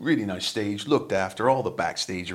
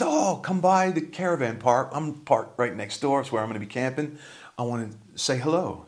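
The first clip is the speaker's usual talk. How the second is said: friendly stranger; 6 semitones higher, 3 dB louder than usual. Retold or imitated. Kind stranger invites the band.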